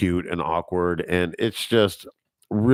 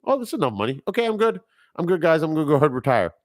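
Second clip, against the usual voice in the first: pretend retiring kingpin; 8 semitones higher, much faster than usual. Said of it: "I'd be like".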